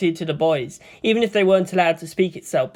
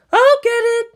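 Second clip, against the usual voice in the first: shouted; 6 dB louder than usual. A narrator's reading. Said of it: "she shouted out".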